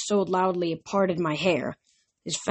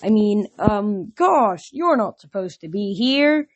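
flustered; slower than usual. Acted. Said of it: "he blushed".

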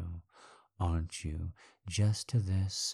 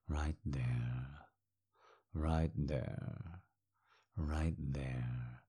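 whisper; 5 semitones lower, 10 dB quieter, much slower than usual. Acted. Dominant partner murmurs commands.

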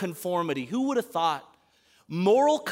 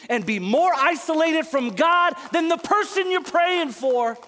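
impassioned preaching; 6 semitones higher than usual. Acted. Preacher urging older brothers and sisters to come home, impassioned. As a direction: exhort the congregation in a higher preaching voice.

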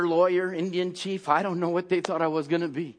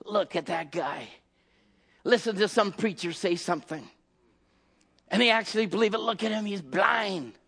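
mocking scoff; 4 dB quieter than usual. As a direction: scoff at him under your breath. Mockers sneer at blind man.

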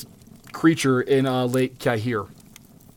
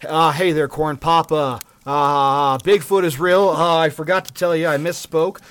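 a light mock Biden, rambling with hesitant uhs; lightly voiced old politician, fumbling and halting; Biden impression. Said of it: "Biden won't come out tomorrow and go".

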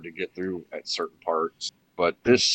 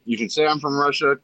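higher-pitched, lightly acted star's retort; a hint of a cocky actor, pitched up; Sean Connery; 5 semitones higher than usual. Star shrugging off the Russian role, lightly mock-defiant. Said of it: "he's like".

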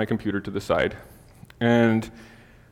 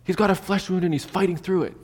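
retold yell at a higher pitch; mock yell; 6 semitones higher than usual. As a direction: pretend to yell excitedly across to the kitchen. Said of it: "I, like, yelled her".

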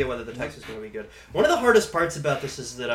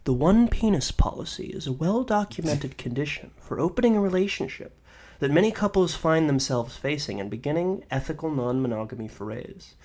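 nature documentary narrator. Acted. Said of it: "I'm gonna read this like a nature documentary guy".

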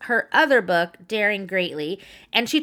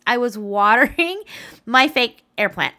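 real laughter spilling into the words; laughing. Real, not acted. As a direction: laugh breaking into the line. Laughing at own mistake.

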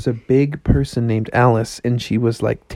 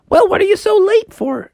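high-pitched puzzled question; lightly acted curious frog; puzzled frog character; 3 dB louder than usual. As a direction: ask the flustered rabbit, voice pitched up. Froggy questions the rabbit.

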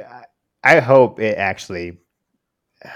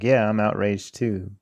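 half-hearted outrage; 4 dB quieter than usual. Acted. Podcaster imitating people's token reaction to the news, half-hearted. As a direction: claim outrage with no energy at all. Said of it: "The same inflection and, uh, energy".

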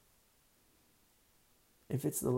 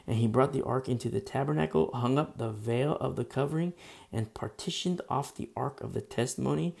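steady, projected Bible reading; emphatic read-aloud of scripture; 3 dB louder than usual. Real, not acted. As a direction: read the verse out to the congregation. Reads scripture aloud to congregation.

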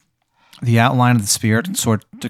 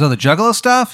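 high ghost voice; 10 semitones higher than usual. Acted.

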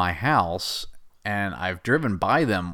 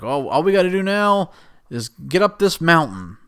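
higher, lightly voiced enthusiasm; mock eager Woody; 6 semitones higher than usual. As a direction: play it a bit higher, proud. Woody voiced, happy about invention.

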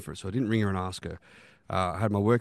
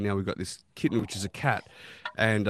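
ordinary delivery

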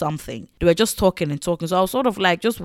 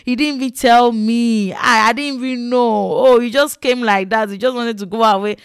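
fake fawning; 2 semitones higher, 3 dB louder than usual. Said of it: "the pretending of it all".

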